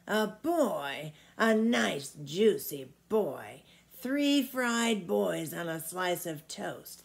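put-on a big old giant savouring the thought of food; an old giant relishing a juicy boy. Old giant voiced in story.

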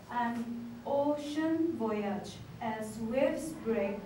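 slow, even poem recital; poem reading. Shown as a demonstration. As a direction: read it like a gentle haiku. Reads the example haiku.

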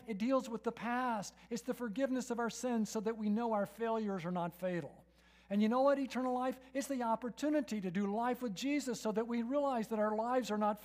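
loud, driving sermon build; full-force preacher's cry; fervent preaching. Acted. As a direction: proclaim it to the whole room.

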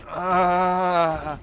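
long, drawn-out mock groan; imitated groan. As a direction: groan like someone just hurt, acted out. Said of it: "immediately after hearing him groan".

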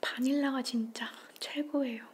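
speaking between bites; chewing while talking. Real, not acted. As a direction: mouth partly full of pastry. Seen 0: Holds bitten pastry at mouth, chewing between phrases while speaking.

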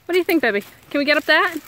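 high, loud coaxing voice for the dog; sing-song dog-owner voice; high pet talk. Real, not acted. Calling the dog on a hike.

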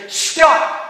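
high, loud yell at the waves; screaming. Retold or imitated. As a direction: scream at the sea to stop. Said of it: "screaming at the waves to stop".

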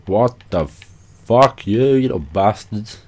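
sudden slow shocked swear at ambushing wolves; startled outburst. Real, not acted. Gamer startled by wolves, a shocked outburst. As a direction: blurt it out, caught off guard and annoyed.

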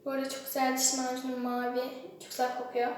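speaking with toothbrush in mouth; muffled by brushing; while brushing teeth. Real, not acted. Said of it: "Aynısını yapıyorum yani şu an".

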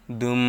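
দুম with the final m held long as a nasal hum; merged with ghunnah. Shown as a demonstration. Teacher shows learners the tanween merging, দুম held in a long nasal hum. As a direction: draw out the closing hum of দুম. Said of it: "গুন্নাহর সহিত মিলিয়ে পড়তে হবে".

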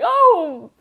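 high, loud faux-surprised voice; mock sarcastic. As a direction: ham up a sarcastic oh-wow. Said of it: "And Huachuan's like".

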